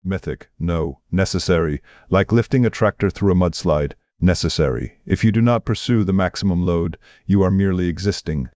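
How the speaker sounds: exaggerated Austrian accent; emphatic pronouncements in an Austrian accent; Arnold Schwarzenegger. Screen titan insisting to the host it was necessary, in exaggerated Austrian accent. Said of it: "exaggerated Austrian accent".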